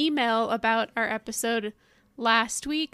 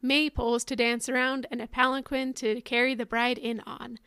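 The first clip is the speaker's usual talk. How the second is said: ad read. Acted. Reads a mock wedding ad.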